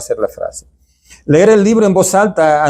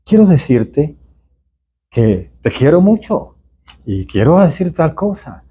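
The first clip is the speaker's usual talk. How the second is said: sweet letter tone. Shown as a demonstration. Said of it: "va en ese tono así".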